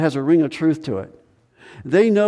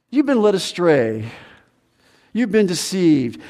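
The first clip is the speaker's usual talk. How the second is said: shaming; 3 semitones higher than usual. Retold or imitated. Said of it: "You shame the people".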